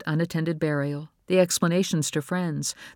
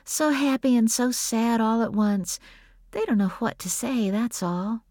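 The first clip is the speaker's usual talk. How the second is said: gentle, higher-pitched reassurance; soft; 8 semitones higher than usual. A narrator's reading. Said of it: "Bree said softly".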